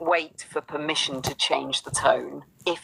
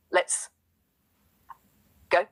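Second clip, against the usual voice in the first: whispered; 2 semitones higher than usual. Real, not acted. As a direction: say it under your breath. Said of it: "you whispered the L F G".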